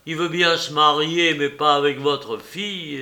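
firm, matter-of-fact mock announcement; nephew's suggested phrasing. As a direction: offer the excuse plainly, leaning on the start. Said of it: "une façon de dire les choses".

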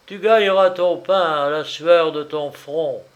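God crying out in wrath; angry cry. A narrator's reading. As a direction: call it out in anger like God passing sentence. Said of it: "Dieu lui cria dans sa colère".

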